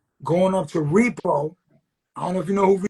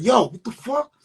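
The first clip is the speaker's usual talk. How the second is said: raised, louder mock challenge; acted angry challenge; 5 semitones higher, 5 dB louder than usual. Rider stepping in to protect his friend, acted challenge. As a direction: call him out, acting it. Retold confrontation over a punch.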